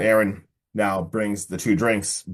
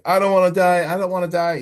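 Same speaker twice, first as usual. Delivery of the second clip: higher, loud mock wail; imitated crying; 7 semitones higher, 5 dB louder, faster than usual. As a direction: plead in a hammed-up tearful cry. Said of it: "He's, like, crying".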